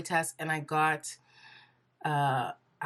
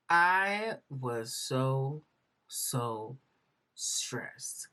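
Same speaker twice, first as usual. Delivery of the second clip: weary; 4 semitones lower, much slower than usual. Real, not acted. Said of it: "I was so stressed".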